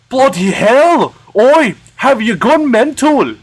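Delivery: high, loud scolding; theatrical indignant outburst; outraged yell. Acted. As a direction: yell it in swooping, affronted bursts. Outraged character reacting.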